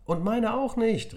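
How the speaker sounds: put-on high, loud, slow children's cry; a chorus of children complaining; kids calling out. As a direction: call it out from your seat. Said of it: "riefen immer mehr Kinder".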